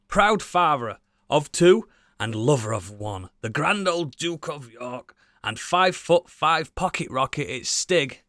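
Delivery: slow, grand announcer build-up; slow mock-epic introduction; grand host introduction. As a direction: introduce him like a boxing champ.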